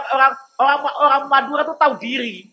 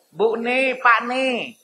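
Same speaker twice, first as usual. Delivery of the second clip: Javanese-style teasing question; 2 semitones higher than usual. Retold or imitated. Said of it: "saya suka bilang di Jawa gitu loh".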